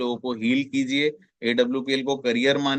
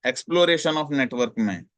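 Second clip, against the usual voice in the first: slow key term; much slower than usual. Shown as a demonstration. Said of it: "names the third phase".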